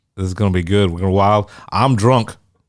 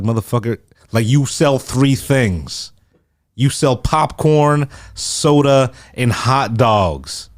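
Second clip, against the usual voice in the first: retold angry rant; 4 semitones higher, slower than usual. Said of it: "I was like".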